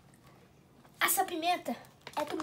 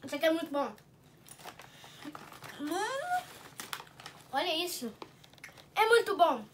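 talking while chewing; eating crunchy snack; mouth full of chips; 4 semitones lower, 5 dB quieter than usual. Real, not acted. Seen 1: hand at mouth, chewing; bites a chip at 6.7 and 7.2.

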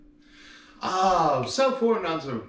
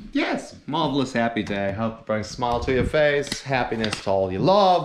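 louder and louder cheerful farewell; cheesy sign-off; 10 dB louder than usual. Acted. Comedian blessing his viewers, building louder and cheery.

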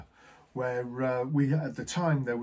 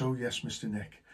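blank; 3 semitones lower, 6 dB quieter than usual. Retold or imitated. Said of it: "he just looked at me blank".

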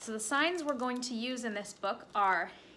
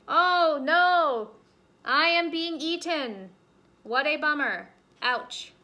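loud, high hammed-up woe; fake dying rabbit; 5 semitones higher, 11 dB louder, slower than usual. Rabbit faking being eaten, loud hammed-up moaning. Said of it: "the rabbit is pretending to be eaten".

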